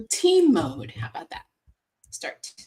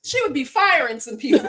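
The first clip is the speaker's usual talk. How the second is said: said through a laugh, louder; 4 semitones higher, 7 dB louder than usual. Real, not acted. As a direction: chuckle through the line. Joking about a singer, laughing.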